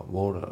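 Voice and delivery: WATER as "waw-ta" with no R; British pronunciation. Shown as a demonstration. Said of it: "これイギリス英語だから".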